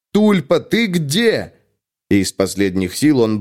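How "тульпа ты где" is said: high, slow pleading call; desperate call. A narrator's reading. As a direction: call out for help, stretched. Ingvar calls for his spirit.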